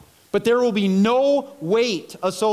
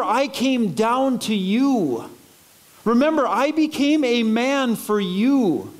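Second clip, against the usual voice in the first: earnest plea, stretching key words out; heartfelt appeal with lingering emphasis; pleading; 2 semitones higher than usual. Acted. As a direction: implore them, slowing on the last words. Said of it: "like, pleading and, and be like".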